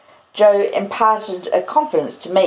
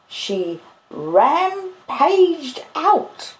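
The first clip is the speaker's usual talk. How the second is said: rampaged stretched very slowly, pitched high; slow, high, emphatic "rampaged out"; drawn-out RAMPAGED; 10 semitones higher, much slower than usual. Acted. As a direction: draw out "rampaged" syllable by syllable, rising. Joe repeats it with drawn-out emphasis.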